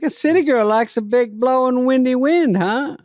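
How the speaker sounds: high, loud hammed-up hick taunt; taunting redneck. Rowdy storm chaser jeering at the city girl, hammed up.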